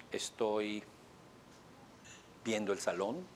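slow answer with long pauses between words; a quiet, hesitant client answering slowly; slow, halting client. Shown as a demonstration. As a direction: drag it out, pausing mid-sentence. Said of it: "No lo hizo con esa velocidad".

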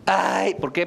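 loud, high mock lament; hammed-up wail. Abandoned lover hamming up the heartbreak, mock wail. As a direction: wail it like a soap opera heroine.

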